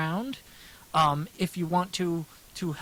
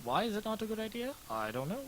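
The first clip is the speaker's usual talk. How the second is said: put-on voice; 6 dB quieter than usual. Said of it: "Maybe I should talk like this always".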